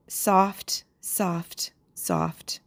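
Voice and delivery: slow, hushed decrescendo on "soft"; fading softly. Acted. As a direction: let the repeated word die away. Poem's word echoed, fading away.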